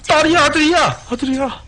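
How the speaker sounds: high playful chant; sing-song teasing. Pretend. Goofy sing-song repeat.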